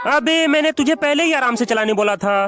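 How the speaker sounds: yelling at a friend in frustration; furious friend shouting about the broken ride; angry shout. Acted. Scolding friend after car breaks.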